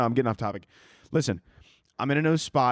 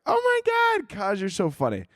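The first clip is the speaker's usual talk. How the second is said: gushing fan; 7 semitones higher than usual. Retold or imitated. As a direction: imitate an adoring fan shrieking praise. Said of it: "you guys are like".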